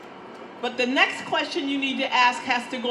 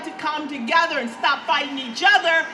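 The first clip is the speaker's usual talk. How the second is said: shouting to a crowd; 3 semitones higher, 6 dB louder than usual. Real, not acted. Rally crowd, building to shouting.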